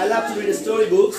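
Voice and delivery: slow "I love to read storybooks", dropping on "storybooks". Shown as a demonstration. Teacher drilling a statement, slow fall on "storybooks". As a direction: glide downward through "storybooks". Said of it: "ভয়েসটা উপর থেকে নিচের দিকে যাবে".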